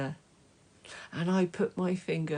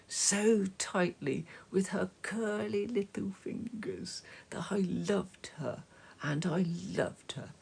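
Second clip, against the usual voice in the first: tender whisper; 4 dB quieter than usual. Acted. Tender words about baby.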